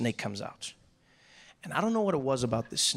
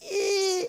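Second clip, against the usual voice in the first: imitated squeak of a man being crushed; high squeezed squeal; 4 dB louder than usual. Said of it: "it would start squeezing him again".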